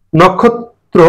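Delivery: নক্ষত্র said slowly as nokkhotro, o after n; teacher spells out নক্ষত্র syllable by syllable; modeling the word. Shown as a demonstration. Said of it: "সঠিক উচ্চারণ হচ্ছে নক্ষত্র".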